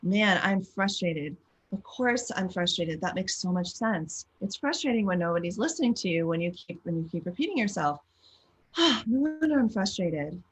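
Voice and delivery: self-compassion. Shown as a demonstration. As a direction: talk kindly to yourself. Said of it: "validate your feeling and say".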